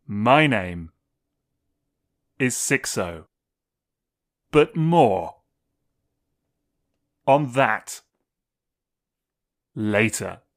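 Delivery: very slow, low, deliberate drawl. Host introducing himself to the lads at the episode start: talking slowly. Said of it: "if I keep talking this slowly".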